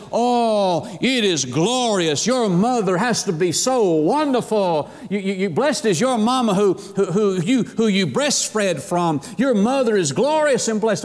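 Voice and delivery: mock gushing praise from an admirer; imitated effusive woman in the crowd; sensationalizing lady. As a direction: gush over it, lightly hammed-up. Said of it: "this lady is sensationalized it".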